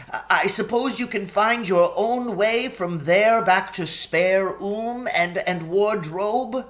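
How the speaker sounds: high, anxious faun voice; a fretful, sorrowful faun. A narrator's reading. Tumnus relenting, stammering.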